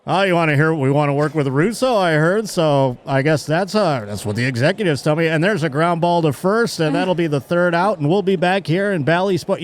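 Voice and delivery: mock sportscaster with a dig slipped in; passive aggressive. Announcer needling a colleague during the game, mildly passive aggressive. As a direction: lightly needle someone through play-by-play. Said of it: "also be passive aggressive, to just be like".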